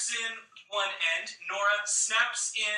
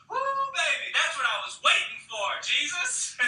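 excited whoop; 7 semitones higher than usual. Retold or imitated. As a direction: cheer like a kid on a ride. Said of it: "Emma even goes".

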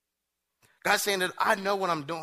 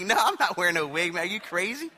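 retold protest, pitched up at the end; mock indignant protest; 2 semitones higher, 3 dB louder than usual. Rider to friend demanding he wear a wig, indignant. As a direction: protest loudly in playful disbelief.

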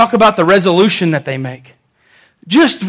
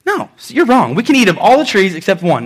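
mildly assertive rebuttal; confident Eve. Acted. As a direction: correct them matter-of-factly. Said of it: "Eve is confident".

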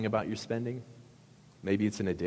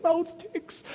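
much higher, squealing through laughter; amused parents. Retold or imitated. Parents retelling son's prank, squealing with laughter. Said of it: "just weeping with tears 'cause they thought it was so funny".

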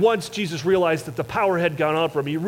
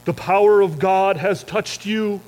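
preachy Jesus; 3 semitones higher, 4 dB louder, slower than usual. Pretend. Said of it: "He doesn't say".

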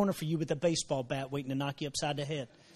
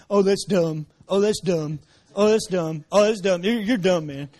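slangy mockery; 6 dB louder than usual. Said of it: "that's not our nineteen nineties slang".

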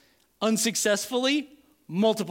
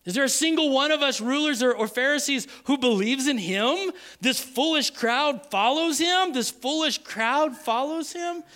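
raised, incredulous mock scorn; 6 semitones higher than usual. Pharisees scoffing at guards and crowd, high mocking voice. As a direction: scoff at them in a higher voice. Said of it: "the Pharisees mocked".

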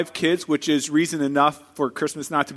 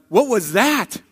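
startled question; 3 semitones higher, slower than usual. Retold or imitated. Startled pastor after train noise.

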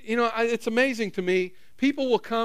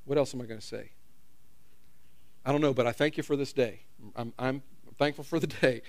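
stuck formal prayer; 7 semitones lower, 6 dB quieter than usual. Retold or imitated. Mock stuck mid-prayer, low mumble.

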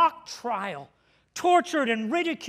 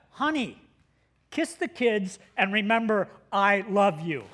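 mock tender farewell; 5 semitones lower than usual. Pastor texting his wife before the jump, mock tender farewell. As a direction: say a hammed-up final goodbye, pitch sinking.

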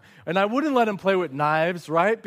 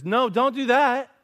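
stern warning; 8 semitones higher, 5 dB louder than usual. Retold or imitated. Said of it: "when God says".

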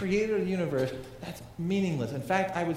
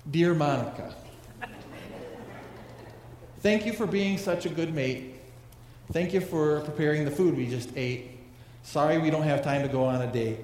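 flat, mechanical droning delivery; monotone voice. Pretend. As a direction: recite it like a bored robot. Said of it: "said in a monotone voice".

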